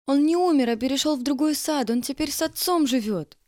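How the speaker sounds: almost yelling. A narrator's reading. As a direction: burst out in protest, close to a yell. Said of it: "Я чуть не заорала". (почти кричит, громче и выше)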